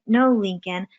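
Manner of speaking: imitating a slow-talking sibling correction; exaggeratedly slow, deliberate correcting. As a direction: spell it out slowly, word by stretched word. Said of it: "be talking slow".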